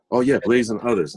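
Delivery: light up as you recognize the record; happy recognition. Retold or imitated. Recognizing record while tidying.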